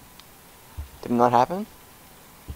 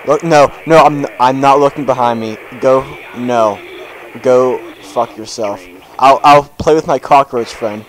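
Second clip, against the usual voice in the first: panicky; 6 dB louder than usual. Real, not acted. Loud refusal while scared.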